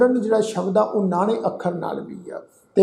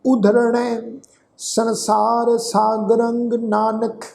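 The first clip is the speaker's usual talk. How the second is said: slow, drawn-out sacred recitation; scripture recitation; 2 semitones higher, much slower than usual. Shown as a demonstration. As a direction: recite slowly, holding the long vowels.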